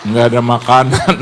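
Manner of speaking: loud comic stage whisper breaking into laughter; mock confidential line, laughing at the end. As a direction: pretend to whisper but say it far too loudly. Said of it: "Dia bisikin teman saya".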